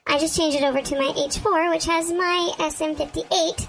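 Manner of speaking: chipmunk voice. Real, not acted. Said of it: "you sound like a chipmunk slightly".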